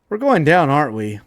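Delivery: sudden high, loud cry of alarm; worried pilot. Acted. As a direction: yelp it out as the copter drops. Pilot voiced in crisis.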